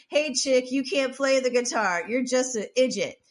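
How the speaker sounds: mild mock yell at a musician; retold heckling yell. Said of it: "he starts yelling her".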